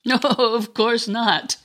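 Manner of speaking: laughing. Acted. Anna laughs at his plea.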